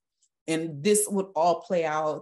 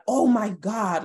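retold yell; 5 semitones higher, 6 dB louder, slower than usual. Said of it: "the way he yelled".

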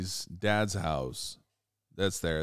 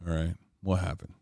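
calming; 2 semitones lower than usual. Retold or imitated. Dad telling the boys to calm down, lightly soothing. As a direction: talk them down as the dad.

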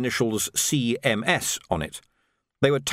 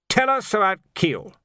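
shouted; 10 semitones higher, 3 dB louder than usual. A narrator's reading. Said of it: "the Major shouted".

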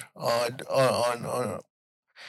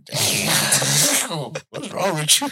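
laughing disbelief; 4 semitones higher, much slower than usual. Retold or imitated. Retold laughing reaction.

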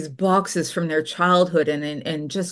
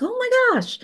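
much higher, delighted gasp of a shopper; mock gushing customer. Customers at every sale gushing over a cup, high mock delight. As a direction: squeal it like a smitten buyer. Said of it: "everybody's like".

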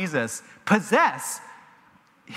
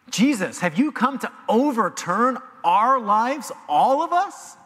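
alarmed plea; 5 semitones higher than usual. Acted. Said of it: "as if to say".

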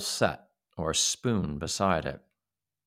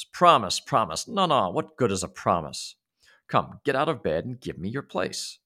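mocking little man; 2 semitones higher than usual. Little man mocking the boy's promise. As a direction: sneer at the word promise.

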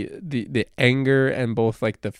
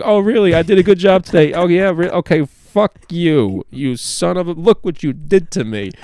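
high, loud mock sob-rant at the therapist; tearful angry outburst; 7 semitones higher, 7 dB louder than usual. Crying patient lashing out at the therapist, high and loud. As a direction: hurl it at her through tears, half laughing. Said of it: "tears dropping down your face".

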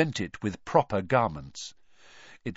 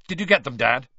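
slightly louder, pointed question; sharp; 3 semitones higher, 6 dB louder, faster than usual. A narrator's reading. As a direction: demand an answer from Dad.

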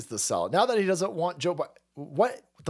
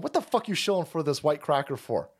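voicing angry audience. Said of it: "your audience is sitting there going".

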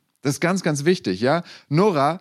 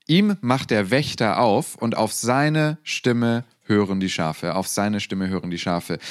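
scripture reading; 2 semitones lower than usual. Acted. Pastor reading John ten aloud to the church, measured. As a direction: read it out to the congregation with weight. Reads Bible passage.

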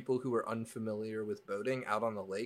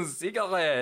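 mock French accent; 9 semitones higher, 6 dB louder than usual. Shown as a demonstration. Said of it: "French mock".

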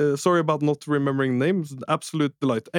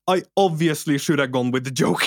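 half-yell the regret at himself; exasperated shout. Real, not acted. Laments missed prank, shouting.

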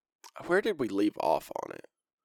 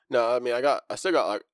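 talking around a mouth sore; with a mouth ulcer. Real, not acted. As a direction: mouth ulcer, careful speech. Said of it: "canker sore in my mouth that makes it hurt to talk".

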